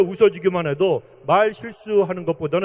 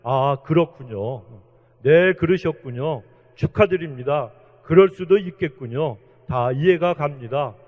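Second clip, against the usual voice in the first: tender, reassuring, unhurried; gentle kind words; 4 semitones lower than usual. Shown as a demonstration. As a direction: model how a gentle person answers. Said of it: "좋은 말, 이런 말을 많이 해야 됩니다".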